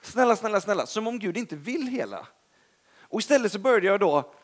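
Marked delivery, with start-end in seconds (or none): 0.0-2.3 preacher imitating a timid begging prayer; mock pleading prayer. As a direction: beg like God won't help. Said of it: "istället för att liksom bara".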